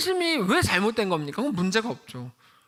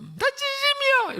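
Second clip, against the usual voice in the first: much higher, slow whimpering "I mean it"; mock crying plea; slower than usual. Pastor mimicking a spouse crying during a fight, high whimpering voice. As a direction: imitate someone crying out their sincerity. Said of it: "그냥 막 울어버리는 거죠".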